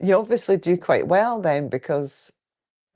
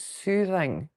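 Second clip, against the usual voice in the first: soothing and calming; much slower than usual. Shown as a demonstration. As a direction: ease the words out gently, like a late-night radio voice. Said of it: "the voice that will put people to sleep".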